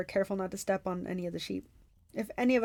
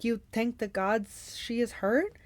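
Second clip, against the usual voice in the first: puzzled; slower than usual. Acted. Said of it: "he asked, puzzled".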